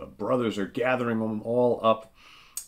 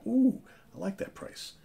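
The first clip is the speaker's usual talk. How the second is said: much higher, gleeful; delighted squeal. Real, not acted. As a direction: coo over the bargain. Reacts to cheap guitar.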